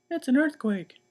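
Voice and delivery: high, loud alarmed cry; panicked shout. Acted. Missus Watson wakes to the hole: panicked high shout. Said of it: "shouted Missus Watson".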